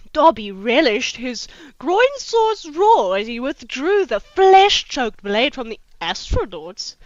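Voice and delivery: slow, emphatic reading aloud; dramatic story narration. Acted. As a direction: relish each phrase of lurid fan fiction. Reads the fanfic aloud dramatically.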